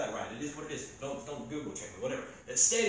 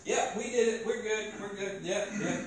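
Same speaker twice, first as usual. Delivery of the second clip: smug priest; 4 semitones higher than usual. Pretend. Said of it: "Like, I'm just".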